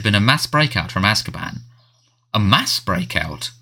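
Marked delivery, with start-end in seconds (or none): 2.3-3.5 slow, hoarse and stunned. Acted. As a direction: repeat it hoarsely in disbelief. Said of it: "had repeated hoarsely".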